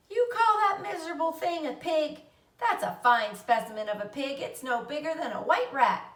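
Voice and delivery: high, loud sneering scorn; mock the runt like a bratty brother; scornful boy. A narrator's reading. Avery to Fern, loud sneering scorn.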